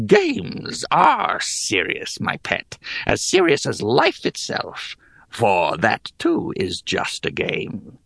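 put-on slow whispery old hag. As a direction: hiss it out like a hag. Hag lectures the boy.

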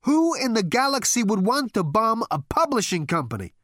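high, loud, incredulous; shouting in disbelief. Acted. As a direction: bellow it over the blasts. Bombs falling, indignant.

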